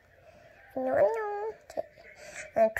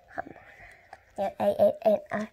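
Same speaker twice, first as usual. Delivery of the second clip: soft breathy ASMR whisper; 6 dB quieter than usual. Pretend. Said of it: "그냥 일부러 한 거예요".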